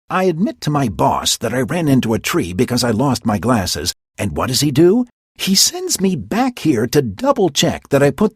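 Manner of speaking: annoyed impish complaint; frustrated Puck. Acted. Puck complaining about his boss, frustrated.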